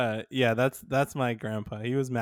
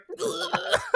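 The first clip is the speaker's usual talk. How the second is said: imitated shock yelp. Imitates mom's reaction to shock pen.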